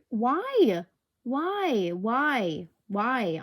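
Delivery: exasperated. Real, not acted. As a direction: wail it at the uncooperative mic. Exasperated at too-sensitive microphone.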